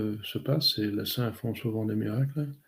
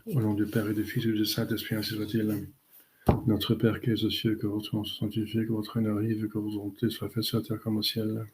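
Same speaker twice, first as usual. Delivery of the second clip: rote, even-toned prayer recitation; closing prayers said by heart; recited prayer. Real, not acted. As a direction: recite familiar prayers in a steady run, little inflection.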